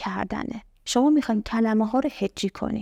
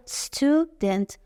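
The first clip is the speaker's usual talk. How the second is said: استودنت slowly, stu then dent; two slow beats in استودنت; split into syllables; 4 semitones higher, slower than usual. Shown as a demonstration. Teacher giving the next example, split into syllables. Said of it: "پس شد دو تا سیلاب".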